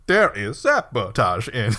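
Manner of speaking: bad acting. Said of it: "and he's like".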